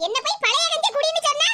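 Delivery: aggrieved mother telling off her daughter; mildly heated reproach; angry scolding. Acted. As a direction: scold indignantly, without shouting. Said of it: "இவ்வளவு கோவம்".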